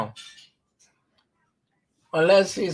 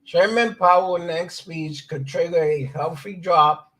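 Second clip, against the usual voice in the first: news read. Acted. Reads a news article aloud.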